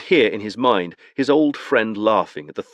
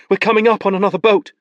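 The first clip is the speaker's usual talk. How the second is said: announced; 12 semitones higher, 6 dB louder, faster than usual. Acted. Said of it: "Isolde announced".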